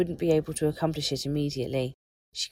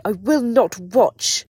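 slow, high, very loud scream; screamed refusal; 5 semitones higher, 11 dB louder, slower than usual. A narrator's reading. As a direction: scream each word in defiance. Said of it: "She did scream the last bit".

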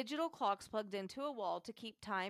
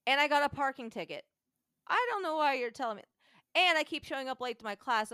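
higher and louder, words tumbling out in distress; frantic outpouring; 4 semitones higher, 8 dB louder than usual. Retold or imitated. Student venting to the utilities man, louder and frantic. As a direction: let the frustration burst out. Frantic caller pouring out frustration.

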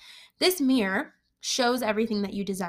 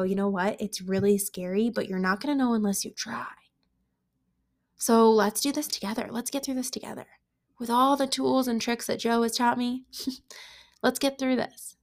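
reassuring. Pretend. Comforting the five-year-old.

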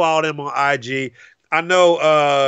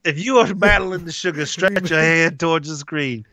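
preaching prayer. Acted. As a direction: lay hands on them, praying earnestly. Mock prayer over the viewers.

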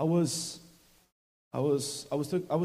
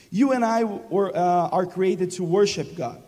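emphatic restatement; 2 semitones higher, 5 dB louder than usual. Real, not acted. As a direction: preach it again with force to rouse the church. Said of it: "It was better this amen".

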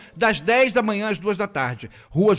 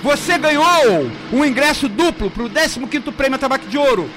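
hyped giveaway announcement; slower than usual. Real, not acted. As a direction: build suspense, then announce the winners. Radio prize draw winners announced.

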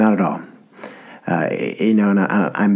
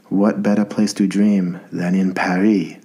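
slow, hammed-up French accent. Podcaster quoting the man in an old movie, amateur French voice. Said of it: "do my best, um, um, you know, French voice".

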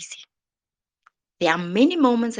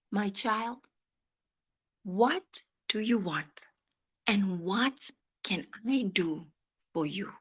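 gentle voice of God; 6 dB quieter than usual. Acted. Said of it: "he's asking you right now".

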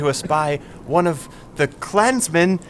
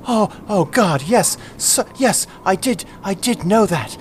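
relieved worry; 5 semitones higher than usual. Acted. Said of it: "where he's like".

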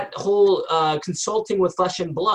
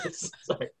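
whispered sorry; 15 dB quieter than usual. Real, not acted. Apologizing after loud fly outburst.

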